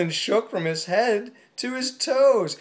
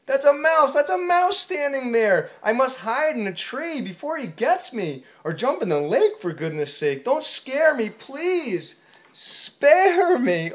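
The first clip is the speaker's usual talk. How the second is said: panicked; 5 semitones higher, 3 dB louder than usual. Acted. Panicked elephant begging.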